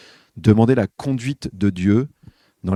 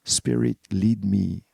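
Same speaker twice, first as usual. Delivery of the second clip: English refrain; 4 dB quieter, much slower than usual. Retold or imitated. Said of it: "une espèce de refrain qui tourne comme ça".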